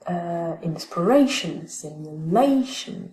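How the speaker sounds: « inspiration », « simulation » dits lentement, syllabes détachées; détacher lentement les syllabes de « simulation »; accent démontré. Shown as a demonstration. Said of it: "on va prendre la première syllabe". (« simulation » lent, accents bien marqués)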